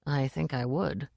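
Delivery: low mutter under the breath. Acted. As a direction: mutter it, barely audible. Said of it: "muttered Hwell".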